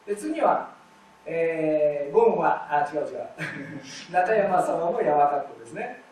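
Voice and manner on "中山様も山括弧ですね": slow reading. Shown as a demonstration. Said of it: "また「ゆう」が出ました".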